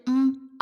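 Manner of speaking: quiet closed-mouth mm of assent; soft hum. A narrator's reading. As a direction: hum softly to say go on. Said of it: "അവൻ മൂളി".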